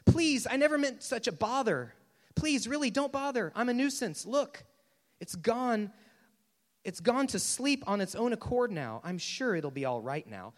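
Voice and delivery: high, fussy begging to be let off; anxious storybook ghost making excuses; pleading, nervous ghost. Acted.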